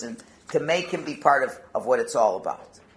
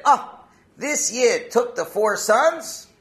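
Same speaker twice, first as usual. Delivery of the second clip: loud, high, slow marveling; delighted exclamation; 9 semitones higher, 8 dB louder, much slower than usual. Acted. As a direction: marvel aloud, drawing the words out with joy. Retells the Rebbe's delighted reaction.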